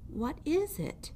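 small timid mouse. Acted. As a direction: ask meekly from inside the fist. Mouse asks in wonder.

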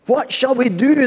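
high, loud cry from frightened sailors; panicked shout. Acted. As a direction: shout it over the storm. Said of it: "they shouted out".

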